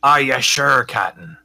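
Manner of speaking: lightly voiced pirate; pirate crewman. Crewman responds to his captain's ambush plan, light pirate voice. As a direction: answer with a touch of sea-dog brogue.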